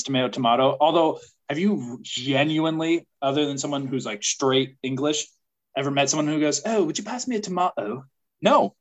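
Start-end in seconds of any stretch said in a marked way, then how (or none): 0.0-0.3 tomato first with "may", then with "mah"; tomato, both ways. Shown as a demonstration. Listing preferences, tomato with an "ay", then an "ah". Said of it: "your preference". 6.6-8.0 mock English accent, tomato with "mah". Imitating someone at dinner, light English accent. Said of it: "say it with an English accent".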